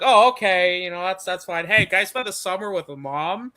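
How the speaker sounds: a hint of a hopeful kid asking dad; son. Voicing the son asking his dad.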